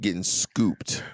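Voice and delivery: light Jamaican accent; a hint of a Jamaican accent. Real, not acted. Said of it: "You just did a little Jamaica accent".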